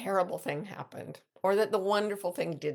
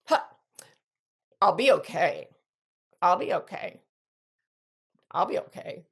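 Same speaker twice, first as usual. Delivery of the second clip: self-reassuring; 4 dB louder than usual. Retold or imitated. A son talks himself into accepting the change, reassuring. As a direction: repeat it to yourself, settling down each time. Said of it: "it changes, he says".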